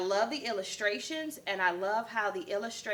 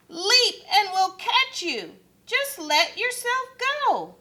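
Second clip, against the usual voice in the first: high loud coaxing call; 11 semitones higher, 6 dB louder than usual. Acted. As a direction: urge him to leap, loudly. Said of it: "the crowd called".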